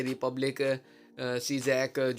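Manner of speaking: slow, hesitant attempt at "सीजैक"; unsure pronunciation. Real, not acted. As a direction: sound out "सीजैक" haltingly, unsure how to say it. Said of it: "सही तरीके से मैं pronounce नहीं कर पा रहा". ("सीजैक" का अटकता, अनिश्चित उच्चारण)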